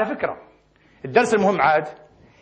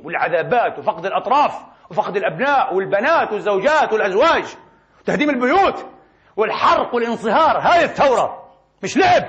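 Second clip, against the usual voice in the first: scornful rebuke. Acted. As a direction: scold the scoffers with mounting scorn. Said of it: "ليرد على هؤلاء الساخرين ويسخر منهم". (توبيخ ساخر يتصاعد على لسان الشعب)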